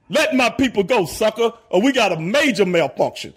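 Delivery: lightly voiced stern Moses; bad acting. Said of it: "I would deliver it like Moses delivered things".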